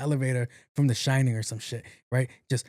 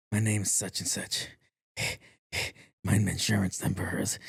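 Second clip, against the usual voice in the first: tired, fed-up sister; 5 semitones lower, 5 dB quieter than usual. Retold or imitated. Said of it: "my sister's like".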